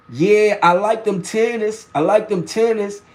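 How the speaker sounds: lightly imitated Southern woman; down south accent. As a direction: retell it with a Southern lilt. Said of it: "introductions to a down south accent".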